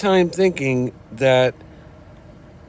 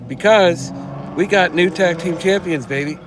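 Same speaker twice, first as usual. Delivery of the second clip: excited; 5 semitones higher than usual. Real, not acted. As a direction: hype it up like a fan. Celebrating new champions.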